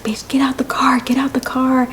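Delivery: high, hushed imitation of a yell; mock angry order. Girlfriend ordering her out of the car, mock angry. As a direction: pitch the order up without volume.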